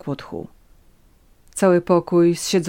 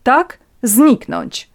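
slow, loud, raised, falling; emphatic confirmation; 8 semitones higher, 8 dB louder, much slower than usual. A narrator's reading. Countess confirms her demand to Natalia, firm and forceful. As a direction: drive the word home imperiously.

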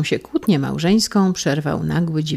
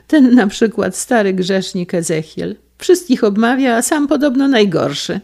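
put-on higher, louder voice of a gossiping old lady; an old lady slandering a neighbour, higher and louder; 6 semitones higher, 6 dB louder than usual. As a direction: dish the dirt on him with relish.

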